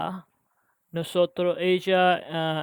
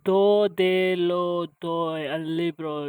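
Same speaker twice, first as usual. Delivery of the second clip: slow careful practice; 3 dB louder than usual. Shown as a demonstration. Learner works through a tricky Spanish sentence slowly. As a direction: Do de lo doy al libro said slowly and deliberately. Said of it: "It's a little confusing".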